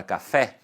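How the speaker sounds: café with the last syllable, fé, strongest; stress on fé. Shown as a demonstration. Teacher shows where café is stressed, stress on its final fé. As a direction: put the weight on the fé of café. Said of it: "você percebe que a sílaba tônica".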